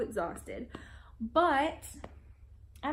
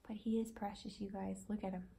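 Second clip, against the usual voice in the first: soft gush; 3 semitones lower, 8 dB quieter than usual. Real, not acted. Gushing over sleeping baby.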